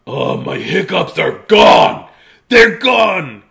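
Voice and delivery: elated storybook shouting; joyful yell. Acted. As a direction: cry out the good news in disbelief. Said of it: "he yelled".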